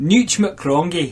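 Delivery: slow, deliberate Scottish reading; Scottish accent. Shown as a demonstration. Reader asked to repeat the character's name, Scottish accent. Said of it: "Say that in a Scottish accent".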